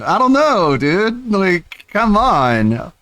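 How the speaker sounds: high, whiny mock rage; gamer rage. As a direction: ham up a gamer tantrum. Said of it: "That is some gamer rage".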